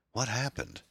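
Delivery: put-on high, confused young woman; dazed girl. A narrator's reading. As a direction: ask it groggy and lost.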